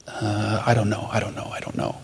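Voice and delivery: soft, low retold reluctance; hesitant mumbling. Retold reluctant inner argument with God.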